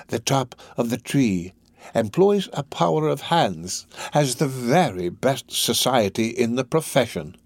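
slow, measured sales pitch; lightly voiced Fagin. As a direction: lightly play a scheming recruiter, unhurried. Fagin talks up his friend.

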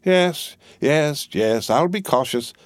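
bustling, bossy housekeeper; Miss Pross voice. A narrator's reading. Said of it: "said Miss Pross".

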